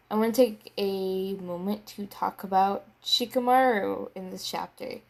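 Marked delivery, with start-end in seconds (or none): 4.2-5.0 words stretched by a yawn. Real, not acted. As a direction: talk through a yawn. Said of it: "Sorry, I was yawning".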